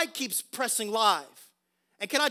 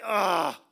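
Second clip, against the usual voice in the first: long, drawn-out reluctant groan; worn-out "ugh"; weary groan; 3 semitones lower than usual. Acted. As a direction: groan like someone who is done. Disciples' weary reaction acted out.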